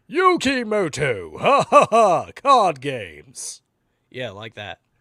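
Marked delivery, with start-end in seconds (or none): 0.1-3.6 booming cartoon duelist voice, very loud, very drawn out. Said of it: "I sort of sound like Little Karibo there".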